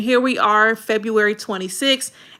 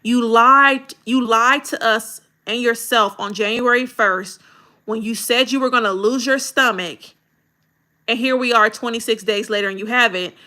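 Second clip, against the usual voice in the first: blunt callout to grab attention; calling-out hook. Shown as a demonstration. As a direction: confront the viewer directly. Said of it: "If I heard you say".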